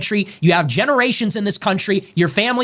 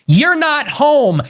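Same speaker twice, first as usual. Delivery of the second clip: You're not home, shouted much higher and louder, very slow; furious, pitched-up slow shout; angry shout; 8 semitones higher, 4 dB louder, much slower than usual. Real, not acted. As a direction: bellow it word by word. Warning aimed at rivals.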